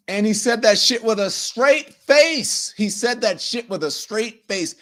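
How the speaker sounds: appalled disbelief. Real, not acted. Host to listeners about a politician's brazen denial, appalled disbelief. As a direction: hammer it out, incredulous at what was just heard. Appalled at clip he just played.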